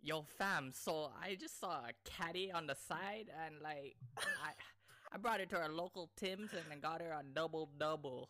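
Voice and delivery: put-on Toronto accent. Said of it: "give us your best Toronto accent".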